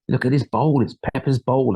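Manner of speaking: lightly voiced cartoon dad, jolly and bouncy; a hint of Daddy Pig, cheerfully coaxing. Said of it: "I was trying to be the daddy pig voice".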